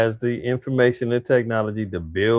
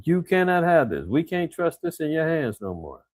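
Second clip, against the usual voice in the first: scolding voice, pitched much higher; mock stern Russia; 5 semitones higher than usual. Russia scolding Germany over nukes, mock stern. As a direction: wag a finger at Germany like a scolding parent. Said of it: "And Russia's like".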